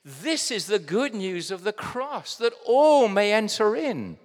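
rising, ringing preacher's declaration; fervent gospel climax; triumphant proclamation. Real, not acted. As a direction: build to a loud, high ALL.

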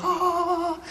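short high uneasy "ah"; nervous yelp. Retold or imitated. Nervous passenger watching the water rise, high yelp. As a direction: let a worried squeak slip out. Plane dropping low over water.

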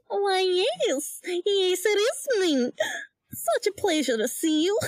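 put-on a touch of a prim old woman; lightly voiced old lady. S0 voices Dula.

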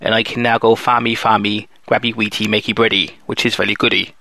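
rustic West Country farmer voice; West Country accent. Pretend. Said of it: "I can't get that voice up for long".

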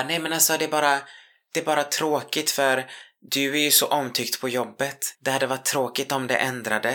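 high, sugary voice hiding a threat; mock sweet veiled threat. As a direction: smile through a warning. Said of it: "Så sa hon". (hög, sötsliskig röst med dolt hot)

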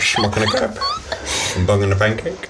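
hammed-up Dutch accent. Co-host riffs on the Dutch forfeit, Dutch accent. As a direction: play with a silly Dutch accent. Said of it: "All right, Dutch".

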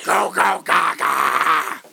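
put-on loud babbling baby noises; baby babble. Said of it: "the sound of Jennifer Tilly's twin babies".

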